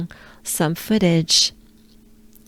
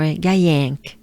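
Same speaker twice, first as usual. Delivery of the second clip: Gaillinck said with a broader, more open nasal vowel; local accent version; 4 semitones lower than usual. Shown as a demonstration. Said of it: "their accent will be more".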